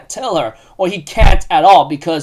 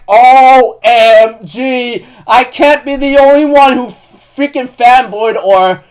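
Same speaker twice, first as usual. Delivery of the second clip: high, loud, slow gushing fanboy cry; fanboy squeal; 4 semitones higher, 5 dB louder, slower than usual. Retold or imitated. Fan reacting to the anime kiss, squealing with glee. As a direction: gush like an overexcited fan. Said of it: "squealed or screamed like a fanboy".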